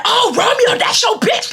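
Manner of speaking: high, singsong mockery; high mocking taunt at Romeo.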